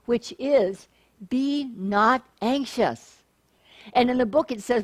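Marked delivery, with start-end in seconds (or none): 1.3-3.2 calm affirmation. Shown as a demonstration. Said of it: "the affirmation that I created".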